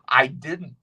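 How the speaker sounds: a breathless whisper, no voice; whispered aside. Real, not acted. Admitting to the listener, in a whisper. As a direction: confess it in a whisper.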